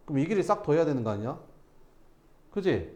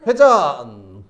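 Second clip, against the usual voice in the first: loud announcing shout of the spin; excited call; 14 dB louder, much slower than usual. Pretend. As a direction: call it out like a stunt. Teacher acting ball rolling.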